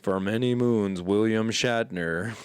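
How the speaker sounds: slow, grave, lightly voiced chief; drawn-out solemn proclamation; solemn Nimoy impression. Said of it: "sounds like a Native American in my impression".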